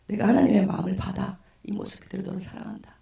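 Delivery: lightly voiced, comforting pastor; gentle pastor. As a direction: let the last phrase sink to a near-whisper. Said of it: "저를 이렇게 안아주시면서".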